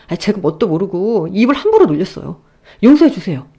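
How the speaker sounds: frantic, loud begging; pleading husband. Acted. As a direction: beg like your life depends on it. Son-in-law begs forgiveness. (장인에게 싹싹 비는 남편, 다급하게)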